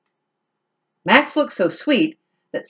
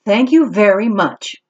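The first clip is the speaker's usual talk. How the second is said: kitten voice; 3 semitones higher, 4 dB louder than usual. Acted. Kitten thanks.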